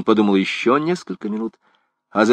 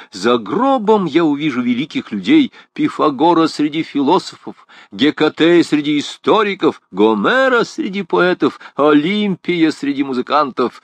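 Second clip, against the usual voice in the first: mildly rapturous listing, higher pitched; eager sage; 7 semitones higher, 4 dB louder than usual. Acted. The sage tells why he would gladly die, mild rapture. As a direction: lightly declaim each great name. Quotes eager philosopher within Gringoire's speech.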